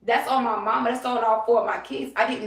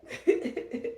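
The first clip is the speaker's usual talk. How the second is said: breathy laugh; 4 semitones higher, 4 dB quieter than usual. Real, not acted. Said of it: "You mad?".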